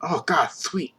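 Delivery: put-on loud eager street kid voice; excited lisping kid. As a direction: blurt it out like a thrilled urchin. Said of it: "he's got, like, a lisp".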